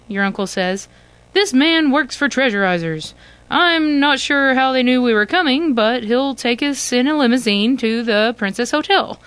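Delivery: eager uncle. Acted. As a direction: sell the fancy hotel with excitement. Uncle voiced in the story.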